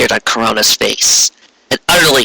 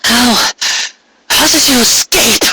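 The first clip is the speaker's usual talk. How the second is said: much higher, startled, demanding voice; demanding Luna; 13 semitones higher than usual. Acted. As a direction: challenge the captor from the ground. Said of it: "Luna demanded".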